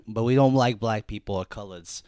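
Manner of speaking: lightly voiced Boston accent. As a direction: parody Boston bigot. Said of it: "that was my Boston accent".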